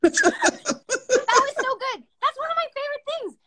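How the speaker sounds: slow words stretched through real laughter; laughing. Real, not acted. Laughing as she praises her costar's plastic surgery joke.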